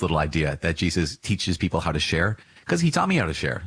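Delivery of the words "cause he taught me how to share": ironic high aside. Real, not acted.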